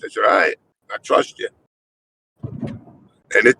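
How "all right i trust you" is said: whispered, lower, giving in; resigned whisper. Retold or imitated. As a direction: sigh it out as if you give up. Giving in to doctors.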